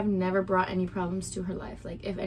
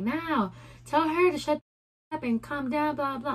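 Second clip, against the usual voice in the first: higher-pitched imitation of a rival; mock tirade; 6 semitones higher than usual. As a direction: retell her bossy demand mockingly. Mimics the other woman's tirade.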